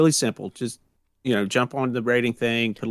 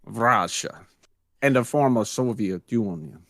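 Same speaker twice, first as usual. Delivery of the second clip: bad Russian accent. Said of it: "That was an awful Russian accent".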